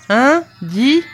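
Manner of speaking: high, loud, sharply rising questions; pressing demand. A narrator's reading. Farmer interrogating the girl about a promise, insistent. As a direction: demand an answer at once.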